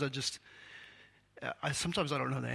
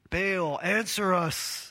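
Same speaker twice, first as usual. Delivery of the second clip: higher, louder slow desperate cry; shouting to Baal; 5 semitones higher, 5 dB louder, much slower than usual. A narrator's reading. Prophets crying out to Baal, a read shout. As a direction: call out to a silent god. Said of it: "they shouted".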